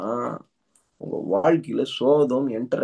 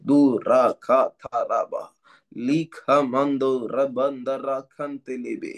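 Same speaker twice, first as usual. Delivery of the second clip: speaking in tongues; slower than usual. Acted. Speaking in tongues during prayer.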